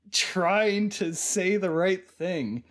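slow, laboured, over-careful wording; straining to pronounce. Retold or imitated. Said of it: "she can't get through a sentence without".

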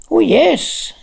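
high, eager burst; excited. A narrator's reading. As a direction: blurt it out with glee. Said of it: "said Lanark excitedly".

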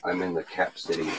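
breaking up over the phone; call dropping out. Real, not acted. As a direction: voice fading on a bad line. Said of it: "You're breaking up".

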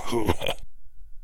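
unvoiced wheezing snicker; soft breathy snicker. A narrator's reading. Caretaker laughs.

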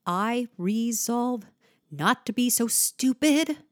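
shortened vowels, punchy consonants; conversational delivery. Shown as a demonstration. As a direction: speak it like a monologue. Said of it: "make it more conversational".

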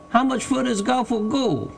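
high-pitched call from up a tree; halloo. A narrator's reading. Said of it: "in a sort of halloo".

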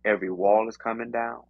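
rising and falling preacher cadence; preaching. Acted. Preaches encouragement to her.

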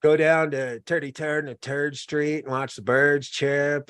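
slow mock New York accent, TH as T. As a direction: play up old New York "toity-toid" talk. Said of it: "the New York accent".

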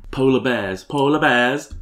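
lightly imitated sing-song friend; a hint of a tipsy friend's lilt; Pernilla saying polar bears. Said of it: "The way that she says".

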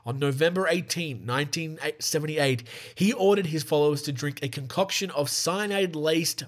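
measured documentary-style read; scripted narration. Real, not acted. Host reads the Jonestown story to listeners, scripted narration.

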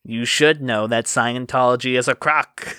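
lightly voiced smarmy rival; a touch of oily smugness. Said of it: "in that smarmy voice he always used".

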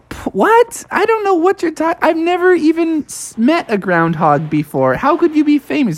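high, sputtering bear; baffled disbelief. Acted. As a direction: stammer up high in confusion. Bear baffled by groundhog's claim.

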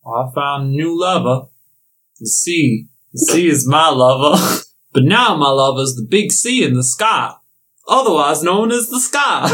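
lightly voiced pirate swooning over the sea; hammed-up sea lover. Pirate father explaining he loves the sea, hammed-up.

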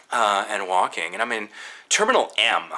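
ordinary talk, nothing marked

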